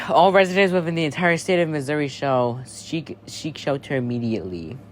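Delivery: formal warning to all residents; emergency alert read. Acted. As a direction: deliver the shelter order like an announcer.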